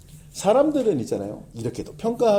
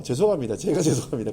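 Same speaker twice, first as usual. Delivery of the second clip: laughing apology; 3 semitones lower than usual. Real, not acted. Sheepish apology after self-realization.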